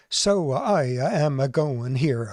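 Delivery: Italian accent with "uh" after syllables; imitated Italian accent. Shown as a demonstration. Lecturer shows how the stroke patient talks, imitated Italian accent. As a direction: add little "uh" sounds, stereotypically Italian. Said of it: "tends to give a, a sound after syllables".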